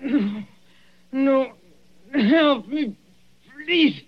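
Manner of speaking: high, strained pleading; desperate begging. Acted. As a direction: beg for life in terror. Dying man begs.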